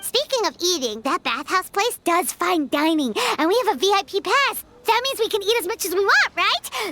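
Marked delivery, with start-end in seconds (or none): 3.4-6.9 fast, eager food plans; eager excitement. Acted. Paimon excitedly plans to eat at the bathhouse for free. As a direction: rush ahead, thrilled about free food.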